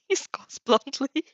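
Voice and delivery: slow, giggly read; amused, breaking up; laughing. Real, not acted. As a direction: still laughing as you read. Reader laughing while reading.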